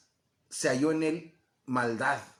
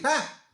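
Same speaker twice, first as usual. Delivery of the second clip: husband's exclamation; 10 semitones higher, 5 dB louder than usual. Acted. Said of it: "el hombre va a decir".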